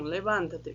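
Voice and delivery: "Levanta-te" with the stress on the "van"; stress demo. Shown as a demonstration. Teacher pointing out the sound change in "Levanta-te". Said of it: "perceba que aqui mudou o som".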